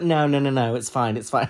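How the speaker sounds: lightly acted, insistent politeness; mock polite. Dakota politely turning down Cheddar's offer, mock polite. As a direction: imitate polite British refusal. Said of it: "they were so polite".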